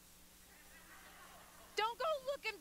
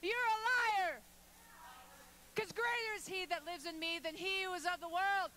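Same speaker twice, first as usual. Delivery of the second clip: rebuking the liar; 3 dB louder than usual. Pretend. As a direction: tell the enemy off to his face. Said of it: "you gotta turn on and say".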